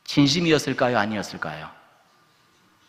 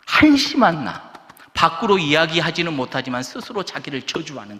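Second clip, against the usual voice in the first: raised, pained lament, lightly dramatised; acted self-reproach; 5 semitones higher, 4 dB louder than usual. Peter silently cursing himself for denying Jesus, pained self-reproach. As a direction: lament your own failure, pitched higher.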